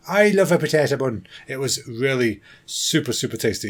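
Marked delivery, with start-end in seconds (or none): 0.1-1.3 a playful hint of an Irish brogue; Irish accent. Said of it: "do a potato thing in an Irish accent".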